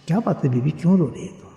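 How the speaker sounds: soft, tender question to a woman; gentle asking. Acted. The Prophet asks the poor woman her trouble, tender and soft. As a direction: ask softly, like a kind elder. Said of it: "کیا انداز ہوگا سرکار کا بولنے کا".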